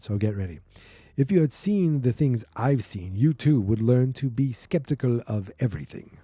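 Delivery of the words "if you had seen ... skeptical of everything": lightly put-on, clumsy Russian accent; bad Russian accent. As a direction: attempt a mock Russian accent. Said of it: "I'm gonna do some bad Russian accent".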